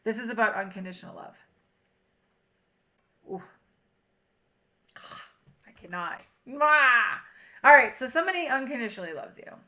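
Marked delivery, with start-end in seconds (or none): 3.3-6.2 overwhelmed sigh. Real, not acted. Sighs, overwhelmed by the reading. 6.5-7.2 loud smacking kiss, higher; playful air kiss; blown kiss. Real, not acted. Blows a kiss.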